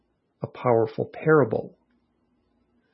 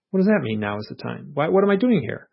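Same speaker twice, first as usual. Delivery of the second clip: bewildered pleading; 3 semitones higher than usual. Retold or imitated. Confused exchange with beings.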